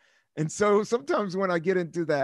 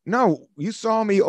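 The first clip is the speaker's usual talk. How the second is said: slow, firm, pointed objection; mock indignant; 6 semitones higher, 5 dB louder than usual. At the woman taking his sandwich, mock firm. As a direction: draw the line slowly. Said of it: "I was like".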